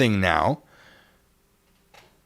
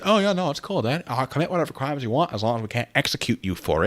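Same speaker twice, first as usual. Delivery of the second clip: mock casual cop; 3 semitones higher than usual. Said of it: "Don't pretend they said".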